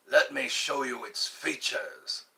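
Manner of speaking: lightly imitated accent of the Slingshot Channel host; a mild mimicry of the host's accent. Imitating the slingshot inventor for viewers, mimicked accent. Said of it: "imitate him".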